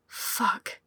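breathy whispered curse; quiet whisper. A narrator's reading. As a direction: whisper it under your breath. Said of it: "Eric said quietly from behind him".

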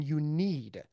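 NEED drawn out slowly; stress on NEED. Real, not acted. Speaker urging listeners to listen, slow emphatic stress on "need". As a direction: lean long and hard on "need". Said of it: "I cannot stress the word need".

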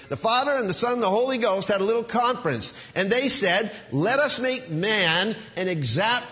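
fast, high preacher's voice quoting God; lightly mocking the young pastor; imitating the pastor. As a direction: rattle it off like an excited preacher. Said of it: "the pastor expounds".

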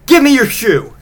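high-pitched, hammed-up Yule lad demand. Yule lad demands the child's shoe, high mock-creepy voice. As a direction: push it up high, insisting like a creepy visitor. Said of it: "they're like".

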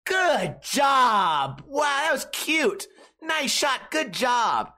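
high, patronizing voice with a laugh; mock fake praise. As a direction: sneer out hollow compliments. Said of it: "they go".

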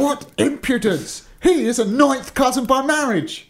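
high, loud giant's tirade; outraged exclaiming. A narrator's reading. Giant furious at his cousin's claim, outraged shouting. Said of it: "exclaimed the giant".

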